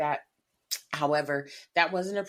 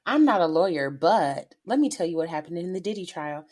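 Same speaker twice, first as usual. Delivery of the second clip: punchy, louder catchphrase opener; quoting a creator's catchphrase; 6 dB louder than usual. Retold or imitated. Quoting a favorite TikTok creator to her co-host, punchy catchphrase. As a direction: imitate a creator's loud video intro. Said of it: "I'm Not a Lawyer chick".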